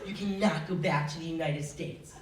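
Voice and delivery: lightly put-on German official voice; mild mock-German accent; deep German accent. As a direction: imitate the German gate agent, a touch low. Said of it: "voice in a German accent".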